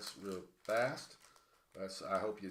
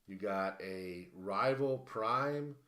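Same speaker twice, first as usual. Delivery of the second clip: out of breath; 4 semitones higher, 4 dB louder than usual. Real, not acted. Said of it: "I'm out of breath".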